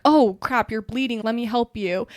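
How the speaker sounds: loud startled exclamation, then urgent; mock alarm, loud at the start; alarmed helper. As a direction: imitate someone jumping in to help. Acted helper reacting to gushing blood.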